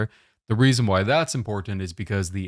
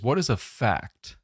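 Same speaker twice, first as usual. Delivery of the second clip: "fact" leaned on, a touch slower; stress on fact; 2 semitones higher, slower than usual. Shown as a demonstration. Teacher stressing "fact" for the students, slow and firm. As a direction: make "fact" the key word of "what is a fact". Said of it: "I'm emphasizing the word fact".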